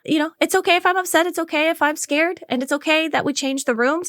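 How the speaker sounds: calm yourself down mid-panic; soothing self-talk. Retold or imitated. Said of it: "I'm just talking to myself".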